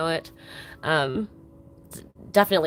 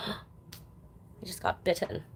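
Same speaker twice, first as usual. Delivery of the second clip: gasp, then whisper the words, shocked; startled whisper; 14 dB quieter, much slower than usual. Real, not acted. Reacting to a mosquito bite, startled whisper. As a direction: caught off guard, breath only.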